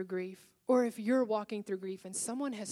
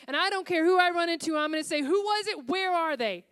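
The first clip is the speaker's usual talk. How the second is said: determined inner vow; 7 semitones higher, 7 dB louder than usual. Retold or imitated. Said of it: "and I thought".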